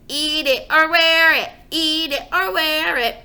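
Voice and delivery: put-on loud, high chanted toddler scream. Toddler screaming at father during a tantrum. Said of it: "Fudge screamed".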